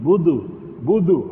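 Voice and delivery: imitating an Arab saying budu; Arab pronunciation. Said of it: "Arab kata".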